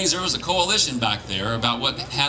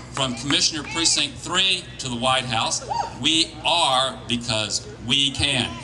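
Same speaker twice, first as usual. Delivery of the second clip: rally speech. Real, not acted. Closing rally to campaign volunteers.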